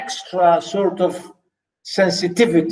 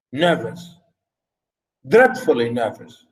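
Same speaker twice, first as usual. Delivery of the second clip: mysterious narrator; 6 semitones lower than usual. Acted. Teacher reading Poe's anxious narrator, low and grave. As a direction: let the word sink low and heavy.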